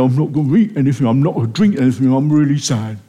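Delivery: sulking Ahab. Retold or imitated. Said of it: "He goes into an absolute sulk".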